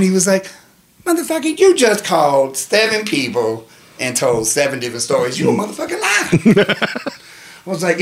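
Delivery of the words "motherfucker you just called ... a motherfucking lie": accusing cellmate. Retold or imitated. Cellmate calling him out.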